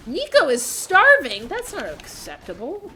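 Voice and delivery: alarmed outburst. Real, not acted. Gamer spotting a starving villager, loud alarm. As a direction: blurt it out in alarm. Reacting to game while talking.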